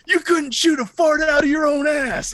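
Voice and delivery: high put-on shootout taunt; John Marston. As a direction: holler the insult in a gunfighter voice. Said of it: "it's just John Marston in a shootout, and he goes".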